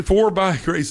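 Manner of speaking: laughing through the words; giddy laugh breaks into the phrase; excited laugh. Real, not acted. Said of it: "I'm getting so excited I can't even talk".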